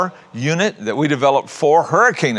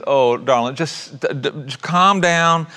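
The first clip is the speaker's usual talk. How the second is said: kind motherly reassurance; 4 semitones higher than usual. Retold or imitated. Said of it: "responded with this amazing kindness".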